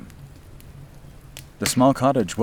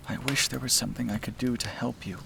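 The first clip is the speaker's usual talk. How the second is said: soft wish; 6 semitones higher, 6 dB quieter than usual. Acted. Juliana speaks softly to sleeping Ken.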